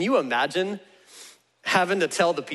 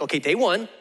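patient dictation with pauses between phrases; slow, spaced-out instructions; 4 semitones lower than usual. Acted. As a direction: break it down phrase by phrase for someone taking notes. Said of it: "let me slow it down for you".

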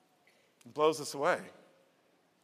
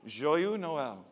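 poor French accent. Shown as a demonstration. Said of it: "not saying that with a good French accent".

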